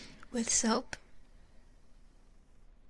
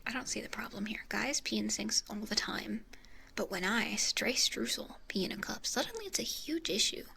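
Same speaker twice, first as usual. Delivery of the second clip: whispering. Real, not acted. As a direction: keep it all breathy and whispered. Whispers through the stream.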